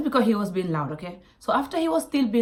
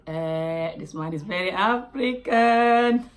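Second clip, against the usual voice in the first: embarrassed aside; much slower than usual. Retold or imitated. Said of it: "I was a bit embarrassed".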